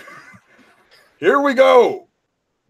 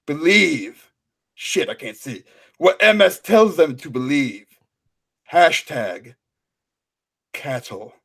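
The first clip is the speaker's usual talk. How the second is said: dramatic reading. Pretend. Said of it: "Our first dramatic reading".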